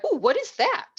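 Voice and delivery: light up at something new; surprised curiosity. Retold or imitated. Student hearing about dietitians from advisor, surprised and eager.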